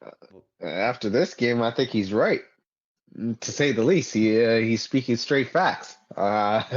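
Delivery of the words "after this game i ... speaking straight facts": sarcastic. Real, not acted. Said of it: "I'm being sarcastic".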